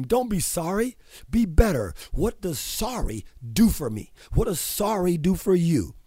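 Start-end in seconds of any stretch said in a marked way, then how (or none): 0.0-1.9 higher, louder barked motto; mock scream. Host retelling how he yells at apologizers, loud. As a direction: shout the motto at them. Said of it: "and I'll scream".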